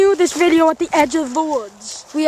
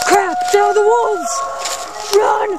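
put-on higher, urgent British-accented warning; play-acted alarm; 3 semitones higher than usual. Explorer spotting wolves and a fence, mock alarm. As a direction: sound the alarm, hammed up.

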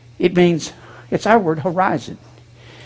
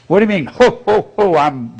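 lightly voiced jolly ho ho ho; a hint of a booming Santa laugh; Santa Claus-like preacher; 4 semitones higher than usual. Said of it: "you sound like Santa Claus then".

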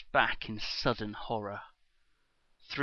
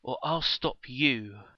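stern threat; 5 dB louder than usual. Acted. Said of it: "she commanded".

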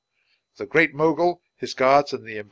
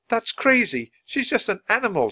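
fierce; 11 semitones higher than usual. A narrator's reading. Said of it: "Her voice was fierce".

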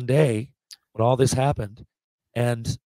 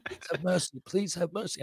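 put-on higher-pitched plea in a British soldier's accent; 5 semitones higher, 9 dB quieter than usual. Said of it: "Say it like a fucking British soldier".

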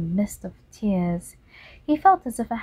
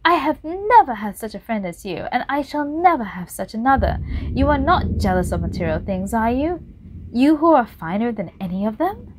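pleading; 4 semitones higher, 4 dB louder than usual. Acted. Painter pleading with Dorian.

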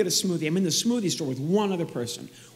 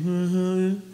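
imitated grunt. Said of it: "She gives me the same thing".

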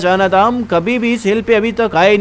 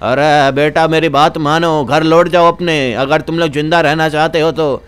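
put-on low-pitched old man urging youngsters home; low elder character voice; pleading old villager; 4 semitones lower than usual. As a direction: play a concerned elder warning them off.

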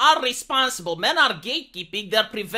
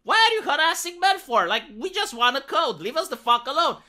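exasperated coder; 5 semitones higher than usual. Retold or imitated. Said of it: "He said, like".

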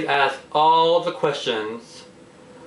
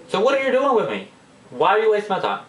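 mock exasperation; 5 semitones higher, faster than usual. Acted scolding of advice-ignoring friend.

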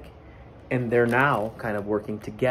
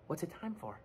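much softer, puzzled; quiet Goose; 6 semitones higher, 17 dB quieter than usual. Acted. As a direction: ask it softly, not waking the baby.

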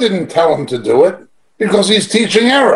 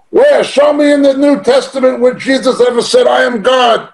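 mock challenge shout; 6 semitones higher than usual. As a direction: throw down the challenge like a debater demanding proof. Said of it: "the Muslim apologists for Islam".

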